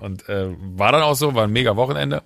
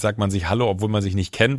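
ordinary delivery

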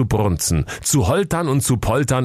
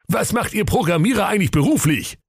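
mild mock bawling; 12 semitones higher than usual. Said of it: "krakeelte der Jakob in den Hörer".

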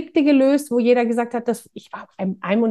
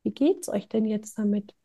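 gentle question; 7 dB quieter than usual. Retold or imitated. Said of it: "ziehen und sagen".

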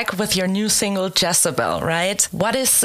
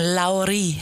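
Finnish-accented name; 2 semitones lower than usual. Shown as a demonstration. Host trying the singer's name in a Finnish accent. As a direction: say Lauri like a Finn would. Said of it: "this is the Finnish accent".

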